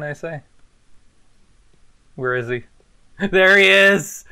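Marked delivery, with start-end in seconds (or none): 3.3-4.2 excited call. Real, not acted. Freddy appears.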